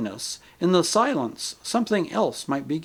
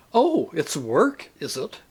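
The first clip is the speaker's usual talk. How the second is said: snapped; 2 semitones higher, slower than usual. Acted. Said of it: "snapped the ghost".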